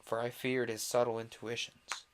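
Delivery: measured audiobook narrator with dramatic phrasing; story narration. A narrator's reading. Invisible Man recounting the fire to Kemp, story narration. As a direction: read it aloud as a suspenseful tale.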